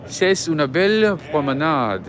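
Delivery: French. Pretend. Switches into French for viewers.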